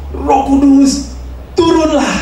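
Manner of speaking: high, slow, drawn-out call to the Spirit; preacher calling out. Acted. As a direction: cry it out slowly from the pulpit. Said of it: "terus dia bilang".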